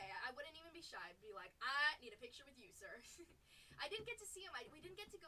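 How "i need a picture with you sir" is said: eager shout. Pretend. Fan asking for a photo.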